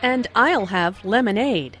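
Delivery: emphasize her own choice with "I'll" and "lemonade"; stress on I'LL and LEMONADE. Acted. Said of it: "Anna stresses "I'll" and "lemonade".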